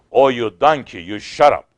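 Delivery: loud, mock-angry put-down; imitating an old man's sharp rebuke; retold rebuke. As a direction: act out a loud scolding of the minister. Old man rebukes jumping minister.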